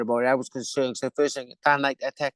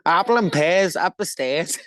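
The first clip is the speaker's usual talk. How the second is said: slow hammed-up London accent, louder; 3 semitones higher, 5 dB louder, slower than usual. Asked for his best London accent, a slow Cockney London accent. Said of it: "give me your best London accent".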